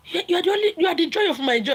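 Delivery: mock the sweet talk while laughing; laughing mockery. Mocking a married man's sweet talk to his lover, laughing.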